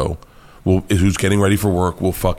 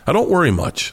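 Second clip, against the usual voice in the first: imitating Joe; 8 semitones higher than usual. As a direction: toss it off, hammed-up carefree. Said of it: "And he looks up and he goes".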